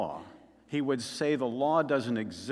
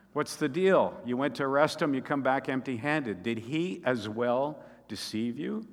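demanding questions, louder at the start; mildly acted indignation; mock indignant challenge; 3 dB louder than usual. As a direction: voice the Pharisees taking the guards to task. Pharisees challenge the empty-handed guards.

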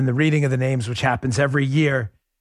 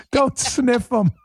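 higher, slow mock heckle through laughter; laughing imitation; 8 semitones higher, slower than usual. Host imitating the guy in the background, laughing. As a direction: mimic the heckler while cracking up. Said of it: "the guy at the end".

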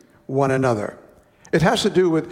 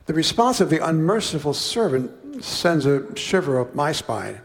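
usual speaking voice

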